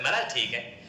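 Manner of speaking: lovingly sweet with a smile; sweet, smiling. Acted. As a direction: smile through a soft sweet reply. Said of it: "बड़े प्यार से कह के जा भाई, मुस्कुराते मुस्कुराते".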